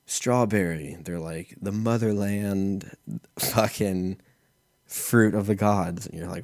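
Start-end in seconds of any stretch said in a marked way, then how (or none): 1.6-6.1 slow, grandiose mock hipster voice; hipster clerk. Comedian mocking hipster smoothie clerk, slow and grandiose. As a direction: lay it on thick like a pretentious barista. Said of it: "it's like a hipster place".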